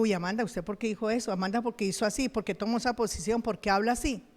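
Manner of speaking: soft fast self-reproach; self-critical mutter. Retold or imitated. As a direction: scold yourself under your breath. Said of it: "porque digo".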